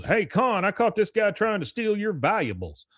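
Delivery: high-pitched mock tattling call; retold call-out. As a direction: call out to a pal, playacted. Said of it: "and he goes".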